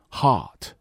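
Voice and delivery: hot with lips held round, enclosing the vowel. Shown as a demonstration. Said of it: "嘴要保持圆润，包住这个音". (嘴保持圆润，包住音地读hot)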